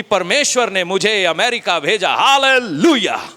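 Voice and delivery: dragged-out mocking hallelujah; a migrant gloating over his blessing; mock pious boast. Hammed-up holy show-off for Facebook followers. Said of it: "Facebook पे छापता है".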